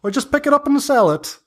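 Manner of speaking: high, coy crone dodging questions; a witch keeping her secrets; sly old hag. Acted. GM voices the hag.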